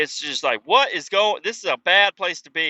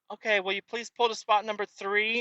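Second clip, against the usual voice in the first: mock worker voice; 6 semitones higher, 4 dB quieter than usual. Mocking drive-through worker request.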